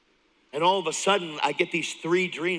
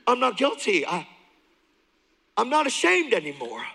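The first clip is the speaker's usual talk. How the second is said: higher and louder, rushing to protest; excited insistence; 7 semitones higher, 3 dB louder than usual. Retold or imitated. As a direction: insist with joyful urgency, much higher. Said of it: "I'm like".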